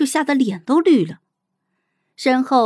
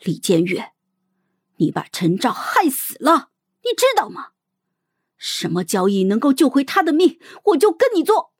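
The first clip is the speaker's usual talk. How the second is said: despairing grief; 4 semitones higher than usual. Acted. Xiao girl blaming the princess for Chen Zhao's fate, grief-stricken. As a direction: accuse her from utter despair. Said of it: "万念俱灰一般沉痛地说".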